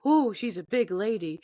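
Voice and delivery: lightly imitated child's wonder; a hint of an innocent little girl. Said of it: "this little girl went".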